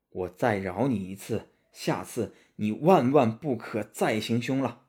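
lightly voiced solemn monk; Tang Seng warning.

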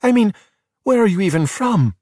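high-pitched, incredulous demand; baffled and fed up; exasperated questioning. A narrator's reading. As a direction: throw up your hands vocally. Giulia exasperated, questions the boys.

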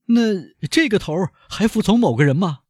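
high, loud banker questioning, leaning on 这; high doubtful banker asking; incredulous banker. Acted. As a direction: press him as the captive banker. Danglars questions the bandit chief.

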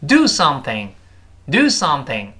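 both words stressed, "do" the heaviest. Shown as a demonstration. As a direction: punch "do", keep "something" clear. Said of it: "都重读，do是最重的一个音了".

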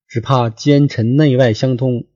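古文朗读腔; classical reading. Shown as a demonstration. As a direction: recite it like the old text. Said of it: "怕是有奸臣内外相通".

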